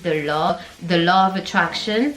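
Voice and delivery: "the law" with an open American aw, as in the US; American accent. Shown as a demonstration. Teaching French learners, the American accent on "the law". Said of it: "Aux États-Unis, ils disent".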